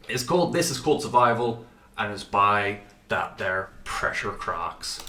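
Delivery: a lightly put-on announcer voice, slowing at the end; silly put-on voice. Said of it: "I don't know why I did that voice".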